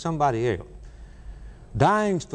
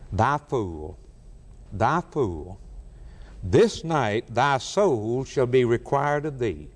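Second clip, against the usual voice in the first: lower, grave rebuke, Thy fool repeated heavily; solemn voice of God; 4 semitones lower, slower than usual. Acted. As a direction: pronounce judgment from above, low and weighty. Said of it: "God said to this young man".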